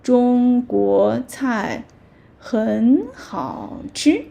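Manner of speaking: slow, even teacher demo; slow model sentence. Shown as a demonstration. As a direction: say each syllable slowly for learners. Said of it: "So literally Chinese food".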